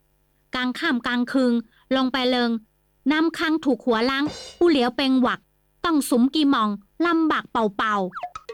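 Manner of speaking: put-on a Chinese merchant warning kindly in accented Thai. Chinese merchant Kim Sai warns in Chinese-Thai accent.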